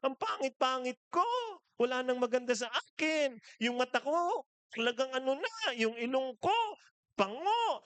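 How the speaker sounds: high, self-pitying wife at the mirror; whining wife. Retold or imitated. Wife at the mirror complaining to her husband, high and whiny. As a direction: moan about every flaw in a high voice. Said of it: "Anong sabi nung misis?".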